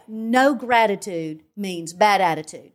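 slow, deliberate repeat of the slogan. Shown as a demonstration. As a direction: spell the saying out slowly for the host. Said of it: "Say that again".

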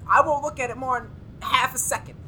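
plead, close to crying; fearful, near tears. Acted. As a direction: voice cracking with fear. Scared assistant refuses to look.

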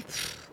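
soft voiceless burst of air; imitated puff. Woman demonstrates how he struck her, soft puffed noise. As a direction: puff out a quiet "pf".

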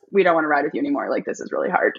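lightly imitated tired riders, pitch sinking; retold whiny protest, dropping low; mock weary complaint. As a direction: grumble low like a worn-out follower. Worn-out riders complaining, acted.

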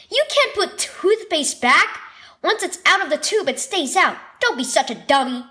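high, fast scolding. Acted. Big brother scolding little brother over toothpaste, fast and high. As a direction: rattle off the scolding.

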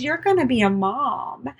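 high-pitched acted good news; retold happy announcement. Nurse telling patient she is pregnant, acted high and happy. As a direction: break the news in an imitated, lifted voice.

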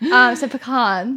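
pecans drawn out pee-KAHNS, Boston style. Shown as a demonstration. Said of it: "my Boston accent".

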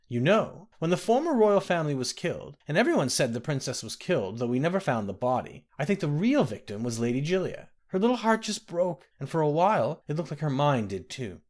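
a hint of a kindly old woman; old nursemaid. The speaker voiced old nursemaid.

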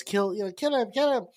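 put-on soft, childlike voice; baby voice. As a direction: murmur it like an eerie little child. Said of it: "in that little baby voice".

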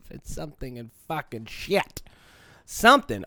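laughing. Real, not acted. Laughing, then blurting.

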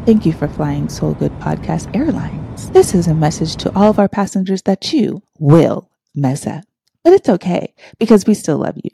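lightly done flight attendant announcement; sweet, polite in-flight announcement. Acted. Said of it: "in, like, my flight attendant voice".

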